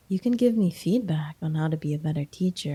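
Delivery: ordinary delivery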